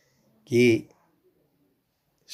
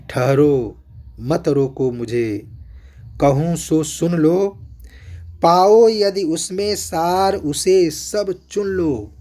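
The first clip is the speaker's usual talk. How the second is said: rising, louder indignant declamation; with self-reproach and indignation; 4 semitones higher, 4 dB louder, slower than usual. Acted. Kaikeyi demanding the assembly hear her, indignant. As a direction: spit it out in bitter self-blame. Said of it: "आत्मग्लानि के साथ, अमर्ष के साथ".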